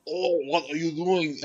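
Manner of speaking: slow, hammed-up attempt at a British accent. Shown as a demonstration. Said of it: "reading it like a British person".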